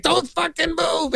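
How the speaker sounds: high, drawn-out movie threat; acted warning. Retelling the motel gun scene from Scarface, acted high warning. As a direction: mimic a panicky standoff line, slow and high. Acts out gunwoman's warning in film.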